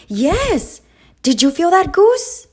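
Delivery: high and loud, climbing on Goose; bursting with excitement; thrilled duck. A narrator's reading. Duck answers Goose about the egg, thrilled and loud.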